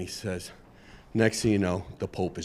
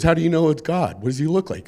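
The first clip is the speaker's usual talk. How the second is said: incredulous chief; 6 semitones higher, faster than usual. Acted. Police chief on the radio asking his officer, higher and disbelieving. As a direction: demand it like you can't believe it.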